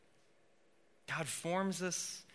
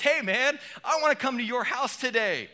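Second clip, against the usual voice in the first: much higher and louder, buddy-style hello; excited friendly greeting; 8 semitones higher, 7 dB louder than usual. Acted. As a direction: greet him like an old friend, full of joy. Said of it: "I imagine Jesus being excited".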